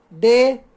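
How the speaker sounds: डेमोक्रेसी in four beats, डे, मो, क्रे, सी; syllable by syllable. Shown as a demonstration. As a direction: pause after each syllable of डेमोक्रेसी. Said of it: "हमें इसमें चार बार रुकना पड़ता है". (डेमोक्रेसी को चार हिस्सों में रुक-रुककर बोलें)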